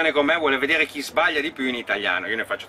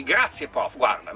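ordinary talk, nothing marked

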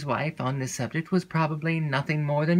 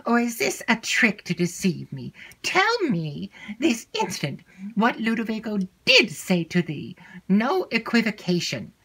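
incredulous mistress; 6 semitones higher than usual. Acted. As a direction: scold and demand the truth. Mistress disbelieving, demanding.

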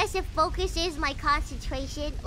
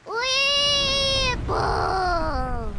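scared giddy laughing; 4 semitones higher, 4 dB louder than usual. Real, not acted. Playful cheering mid-fight.

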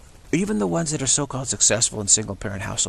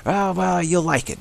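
much higher, louder mock cheer; hammed-up reassurance; breezy Eve; 8 semitones higher, 5 dB louder than usual. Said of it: "She goes".

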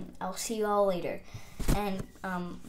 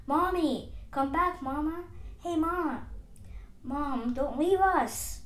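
higher-pitched begging for mommy; pleading little ones; 5 semitones higher than usual. Acted. Tadpoles begging their supposed mommy to stay, pleading call.

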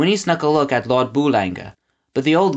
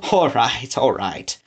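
conceding; slower than usual. Acted.

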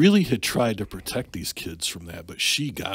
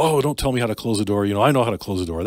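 louder playful scolding, a bit fast; mock yell; 2 semitones higher, 7 dB louder, faster than usual. Dad playfully yelling at daughter over the door, mock yell. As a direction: pretend to snap at her, all in fun. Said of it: "yell at her".

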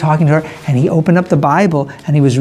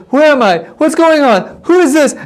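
confused waking; 7 semitones higher than usual. Acted. Priestess wakes confused.

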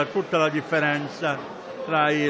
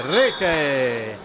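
louder falling goal shout; breathless italian goal commentary; 4 dB louder than usual. Real, not acted. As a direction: call the goal out loud. Live goal called.

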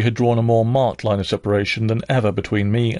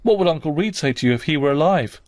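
defiant demand; 5 semitones higher than usual. Acted. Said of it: "my scarcely voluntary demand".

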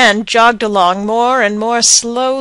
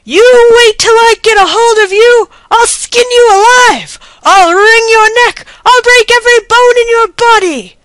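furious high yell, much louder; yelling threats; 12 semitones higher, 7 dB louder than usual. A narrator's reading. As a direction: bellow threats at the runaway pony. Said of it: "yelling bloodthirsty threats to his pony".

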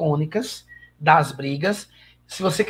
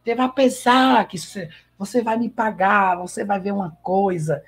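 lightly hammed-up telenovela warning; Soraya's threats; 3 semitones higher than usual. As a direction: threaten like a soap-opera villainess. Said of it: "Quando Soraya chega no quarto".

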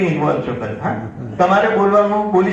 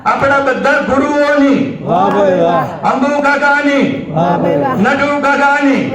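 toast calls; 5 semitones higher than usual. Real, not acted.

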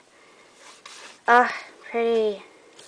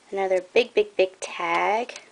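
out of breath; 3 semitones lower than usual. Real, not acted. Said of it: "I'm still out of breath".

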